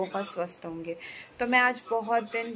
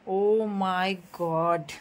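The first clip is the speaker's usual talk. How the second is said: slow, stretched exclamation; drawn-out amazement; 3 semitones lower, much slower than usual. Real, not acted. Woman reacting to a new phone cover, amazed.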